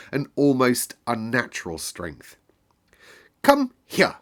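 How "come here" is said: much higher, louder sudden call; boy shouting for his friend. Acted. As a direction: bellow for Dickon. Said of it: "he shouted to Dickon".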